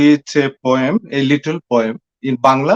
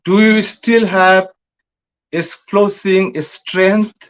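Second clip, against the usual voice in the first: poetry recitation; 3 semitones higher than usual. Acted. Recites own poem in English.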